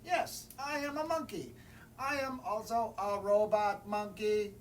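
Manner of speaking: high, goofy monkey voice; silly monkey voice. Acted. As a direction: insist cheerfully like a cheeky monkey. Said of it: "my monkey voice".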